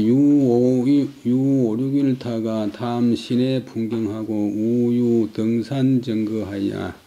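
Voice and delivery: slow, measured reading with drawn-out syllables; stately, even-pitched recitation; classical text recitation. Acted. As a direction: intone it like an old scholarly text, evenly and slowly. Reads old mixed-script text aloud.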